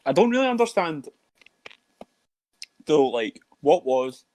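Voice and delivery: talking around an ice cube; words muffled by ice in mouth. Real, not acted. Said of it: "I put an ice cube in my mouth".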